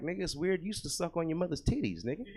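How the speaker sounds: laughing through the comeback, a bit fast; chuckling mock scold of the son; laughing retort. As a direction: crack up while teasing the son. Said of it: "And I'm like".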